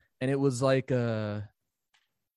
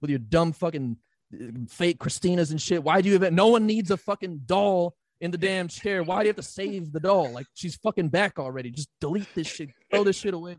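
retold angry rant; 4 semitones higher than usual. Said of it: "I'm like".

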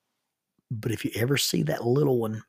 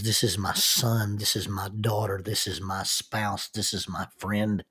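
tender affirmation; 2 semitones lower, 5 dB quieter than usual. Acted. A voice claiming son, daughter, spouse and friend, tender affirmation. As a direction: introduce each loved one gently, unhurried. Voice naming loved ones by identity.

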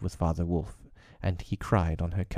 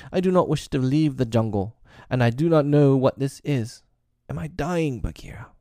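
higher, trembling plea fading to breath; tearful fear; 8 semitones higher, 4 dB louder than usual. Acted. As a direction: ask in tears if he is dying.

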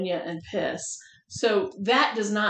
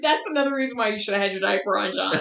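laughing; much faster than usual. Real, not acted. Teasing through laughter.

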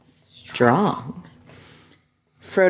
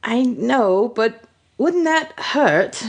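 high-pitched, drawn-out apprehension; uneasy, reluctant question rising high; cringing worry; 5 semitones higher, slower than usual. Acted. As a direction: ask it slowly, wincing. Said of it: "Frodo cringed".

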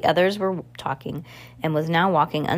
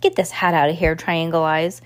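snarled; 4 dB louder than usual. Acted. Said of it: "Count Olaf snarled".

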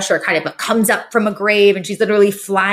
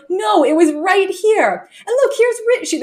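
doing Yetta; 10 semitones higher than usual. Retold or imitated. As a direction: squeak it out like a dotty grandma. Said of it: "Yetta goes".

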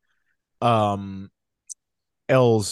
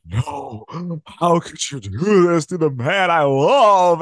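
mocking Elle's melodramatic plea to the man she loves; slower than usual. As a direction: overplay the heartbroken plea. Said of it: "so overdone and so melodramatic".

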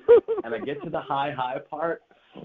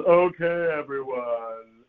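slow, stretched-out teacher call; much slower than usual. Retold or imitated. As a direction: draw it out like a drama teacher. Imitating drama teacher addressing the class.

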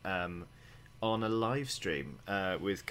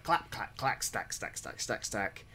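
imitating chip sounds; slower than usual. Shown as a demonstration. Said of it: "it's just a delight to be like".

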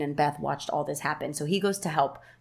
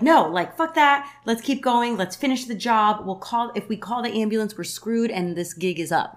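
brother Jackson; 5 semitones higher, 5 dB louder than usual. Retold or imitated. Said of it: "Jackson is like".

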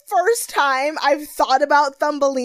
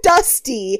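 disgusted; 9 semitones higher, 10 dB louder, slower than usual. Real, not acted. Disgusted about weave.

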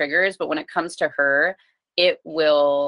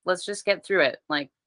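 gentle coaxing. Retold or imitated. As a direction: coax a child along gently, without pressure. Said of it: "trying to be gentle".

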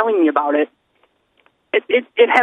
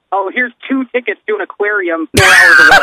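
laughing mock announcer, louder; mocking radio promo; 6 dB louder than usual. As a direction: oversell a cheap prize while laughing. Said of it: "it's like".

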